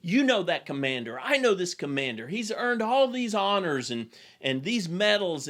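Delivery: storyteller voicing a general's fit of rage; retold rage. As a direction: protest like an indignant general, half-acted. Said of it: "the older general goes into a rage".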